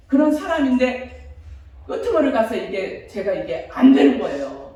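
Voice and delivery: normal talking voice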